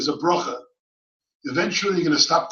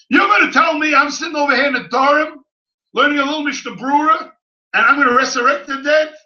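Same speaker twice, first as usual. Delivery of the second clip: incredulous objection; 6 semitones higher, faster than usual. Acted. Acting out a doubting listener.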